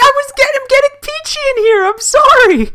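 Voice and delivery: high-pitched, flustered pleading; frantic apology. Real, not acted. Streamer apologizing for cutting partner off, frantic high apology. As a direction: squeal out a hurried excuse.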